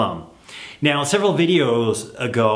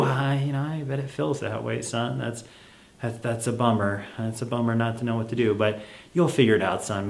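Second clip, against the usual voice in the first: softer, calm reassurance; gentle parent; 5 dB quieter than usual. Acted. Parent calmly refusing child's request, soft and kind. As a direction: hold the line kindly. Parent soothing in role-play.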